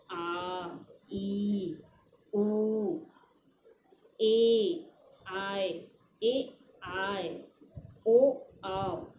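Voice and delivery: each vowel "आ", "ई", "ए", "आय", "ओ" held out long and slow; long vowel demo. Shown as a demonstration. Teacher showing students long vowels, slow drawn-out vowels. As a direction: draw out every vowel to double length. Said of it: "इसमें ज़्यादा समय लग रहा है".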